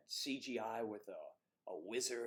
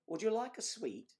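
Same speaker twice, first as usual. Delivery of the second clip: mock British offer; 11 semitones higher, 3 dB louder than usual. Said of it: "and you say sweets".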